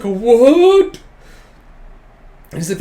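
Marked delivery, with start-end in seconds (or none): 0.0-1.0 high, very loud, stretched what; hammed-up shock; shocked yell. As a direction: blurt it out in total disbelief. Boy reacts, shocked, in retelling.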